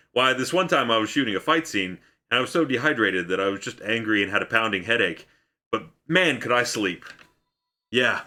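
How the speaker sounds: put-on a failed Australian accent that drifts toward Scottish, lightly done; Hugh Jackman's Australian accent. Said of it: "it's the wrong accent".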